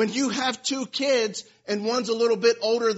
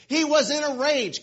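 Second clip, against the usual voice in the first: "He was in a rage" pushed up, louder, hitting "rage"; stress on rage; 6 semitones higher, 5 dB louder than usual. Shown as a demonstration. Preacher to church, stressing how angry Naaman was. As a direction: lean hard into "rage" to show anger. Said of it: "there's mad and there's a rage".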